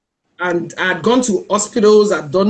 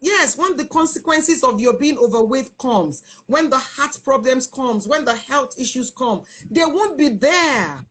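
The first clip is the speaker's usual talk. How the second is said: higher-pitched, emphatic brother's lecture; retold stern warning; 5 semitones higher than usual. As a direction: press each consequence home, voice raised in pitch. Brother confronts her about her weight.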